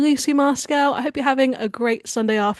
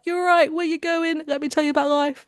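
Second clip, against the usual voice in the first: chatty cabbie; 5 semitones higher than usual. Retold or imitated. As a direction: mimic a chatty cabbie holding forth. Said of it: "it's like".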